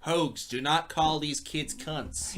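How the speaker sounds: slow, put-on American accent. Imitating American film crew scolding the star, mock American accent. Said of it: "but they have American accents".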